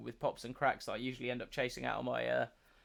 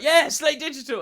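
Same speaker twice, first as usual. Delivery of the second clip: loud high hyped shout; mock excited fanboy; 12 semitones higher, 12 dB louder than usual. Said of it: "It's like".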